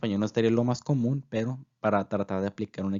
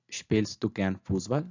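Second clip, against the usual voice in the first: slow whole question; slower than usual. Shown as a demonstration.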